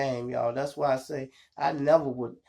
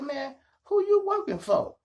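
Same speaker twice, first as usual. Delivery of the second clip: high, loud street challenge; demanding; 13 semitones higher, 4 dB louder than usual. Retold or imitated. To the rival dealer, a loud high demand. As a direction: call him out hard.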